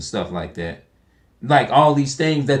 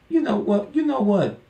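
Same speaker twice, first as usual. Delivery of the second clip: excited admission; 10 semitones higher than usual. Retold or imitated. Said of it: "you telling God".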